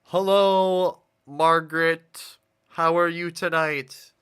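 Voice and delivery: loud, slow, booming greeting; all caps shouting. Pretend. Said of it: "pretend like I was saying that in all caps".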